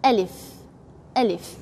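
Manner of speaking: Alif, gentle and open, no catch; soft correct Alif. Shown as a demonstration. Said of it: "have to be soft like this".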